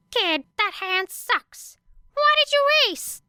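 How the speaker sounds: gruff mocking disbelief; incredulous gambler. A narrator's reading. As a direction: scoff at the rookie. Player mocking her bad play.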